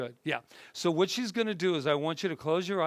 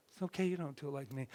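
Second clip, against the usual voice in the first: quick plain version; 7 dB quieter, much faster than usual. Shown as a demonstration. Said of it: "Do you see how different that is?".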